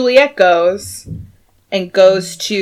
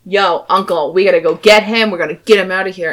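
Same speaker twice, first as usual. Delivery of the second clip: mildly angry, urgent appeal; acted pissed Tybalt; 3 dB louder than usual. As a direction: play a touch of anger to the uncle. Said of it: "Tybalt's pissed".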